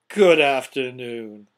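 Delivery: loud, slow, drawn-out farewell; firm dismissal. A narrator's reading. Scrooge dismisses his nephew, loud slow dismissal. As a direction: end the talk with emphatic finality.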